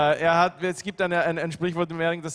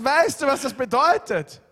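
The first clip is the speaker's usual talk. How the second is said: higher, slow, mildly mock-angry question; mother's demand; 7 semitones higher, 4 dB louder, slower than usual. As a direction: echo the angry mom with restraint. Translator echoes the mother's angry demand.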